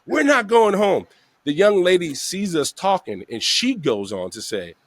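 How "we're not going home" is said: high, drawn-out firm no; retold stubborn refusal, pitched up; adamant refusal. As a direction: overrule a begging friend, stretching it out. Refusing tired buddy's plea.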